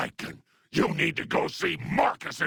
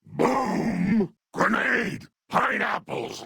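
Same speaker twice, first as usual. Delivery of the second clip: combat callout; 9 semitones higher, slower than usual. Acted. Grandma character calling out in combat.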